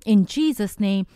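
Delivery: steady, fervent intercessory prayer; spoken prayer. Acted. Host praying for every woman listening, fervent prayer. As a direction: pray over the listeners earnestly.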